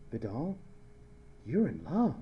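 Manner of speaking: softly acted friend's remark; hushed retold observation; retold aside. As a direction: say it low, like a knowing aside. Roommate's aside in a retold anecdote.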